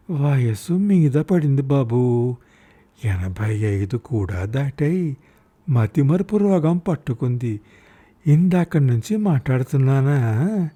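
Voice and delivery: put-on slow, wavering old woman's lament; a lightly voiced forgetful old mother; frail old mother. (మతిమరుపుతో వృద్ధ తల్లి నెమ్మదిగా)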